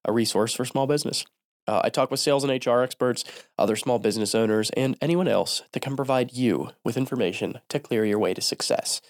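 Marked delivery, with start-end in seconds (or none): 1.7-9.0 stuffy nose from a cold; nasal, blocked-nose voice. Real, not acted. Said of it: "sorry for the nasally voice today".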